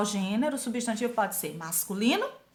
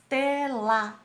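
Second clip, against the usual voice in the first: "tela" split into te, la; syllable by syllable; 2 semitones higher than usual. Shown as a demonstration. Teacher showing a two-syllable word, syllable by syllable. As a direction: say "tela" in two separate beats. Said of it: "são formadas por duas sílabas".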